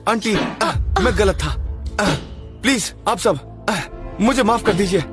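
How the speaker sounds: slow, quiet, humbled apology; pleading apology. Acted.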